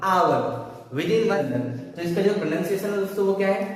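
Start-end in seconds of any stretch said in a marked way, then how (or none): 0.1-0.4 आवर said louder, no h, like our; आवर with the h dropped; correct hour. Shown as a demonstration. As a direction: stress आवर with silent h. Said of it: "क्या निकलेगा".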